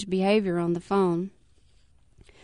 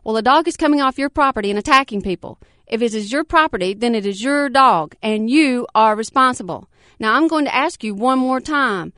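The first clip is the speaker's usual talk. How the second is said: stern official; 3 semitones higher, 6 dB louder than usual. Acted. Officer pressing her.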